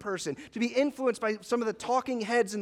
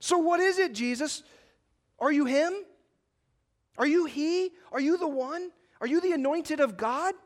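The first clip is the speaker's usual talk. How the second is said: pressing high priest; 5 semitones higher than usual. Retold or imitated. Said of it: "They're saying stuff like".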